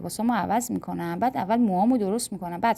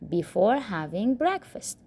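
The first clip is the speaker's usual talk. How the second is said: slow model phrase; much slower than usual. Shown as a demonstration. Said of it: "model phrase".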